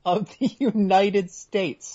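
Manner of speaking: drawn-out, weighty phrasing; slow, pointed emphasis. Real, not acted. Co-host pressing the host on the presidency, slow pointed emphasis. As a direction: stretch each word so it sinks in.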